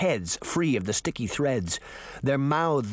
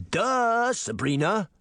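mocking spider boy; 8 semitones higher, slower than usual. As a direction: taunt her like a class bully. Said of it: "Toby the spider clicked".

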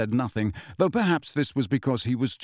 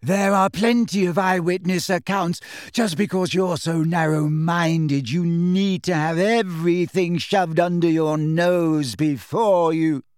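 higher, drawn-out angry rant; offended, insistent character voice; indignant believer; 5 semitones higher, 3 dB louder than usual. Acted. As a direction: argue heatedly until cut off.

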